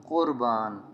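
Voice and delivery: कुर्बान opening on a q from the throat; throaty q. Shown as a demonstration. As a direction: say कुर्बान as qurbaan. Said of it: "इसे कुर्बान नहीं पढ़ेंगे".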